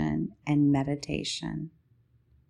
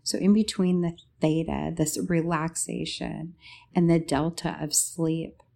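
sleep story narrator. Acted. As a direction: lull them gently toward sleep. Meditative description in podcast intro.

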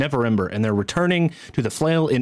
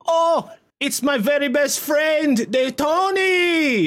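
much higher, slow, sobbing with joy; overjoyed innkeeper; much slower than usual. Acted. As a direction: weep with joy at a best friend. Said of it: "He's like".

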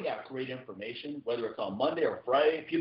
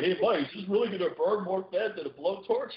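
higher-pitched imitation of a doubting reader; mock incredulous question; 8 semitones higher than usual. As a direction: put on mild disbelief, pitched up. Voicing a reader mocking his tagline.

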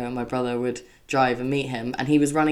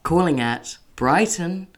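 slow, even tannoy announcement; train announcer voice; slower than usual. Pretend. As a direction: announce stops like a station tannoy. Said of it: "You would smash that job".

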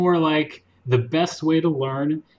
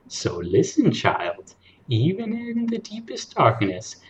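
put-on old lady voice; 2 semitones higher than usual. Shown as a demonstration. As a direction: read like a sweet old grandma. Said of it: "old lady voice".

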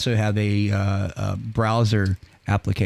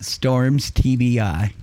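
announcing title; much slower than usual. Real, not acted. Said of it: "I know what I'm calling this podcast".

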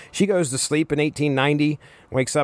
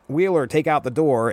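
normal talking voice

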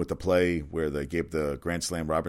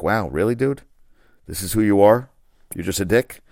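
incredulous; 4 semitones higher, 9 dB louder than usual. Retold or imitated. Incredulous rant at troll.

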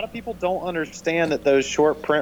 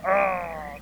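exasperated groan; 4 semitones higher than usual. Retold or imitated. Retold reaction to a comment.

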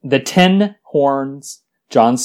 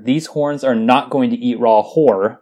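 ordinary delivery

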